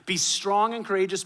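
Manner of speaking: imitated rousing encouragement; firm pep talk. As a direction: drive the command home. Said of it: "a little bit of a pep talk".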